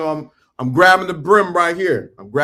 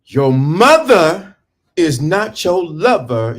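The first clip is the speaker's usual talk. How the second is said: slow, stressed words; emphatic preaching; 3 dB louder, slower than usual. Real, not acted. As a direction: hammer each word home slowly. Preaching to men about mothers.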